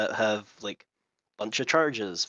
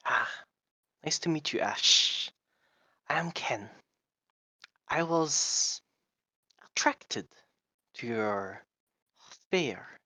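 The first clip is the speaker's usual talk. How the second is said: put-on lizard accent; 4 dB quieter than usual. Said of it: "doing a lizard accent".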